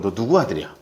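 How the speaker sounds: tense king. Retold or imitated. King Saul tensely asking the boy's father, low and wary. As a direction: ask it holding your breath. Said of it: "굉장히 긴장하면서 물어보는 거예요".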